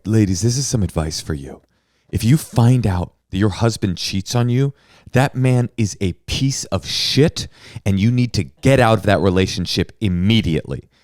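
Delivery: imitating a stern advice to camera; lightly voiced earnest warning; a hint of solemn lecturing; mock super serious. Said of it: "she gets super serious".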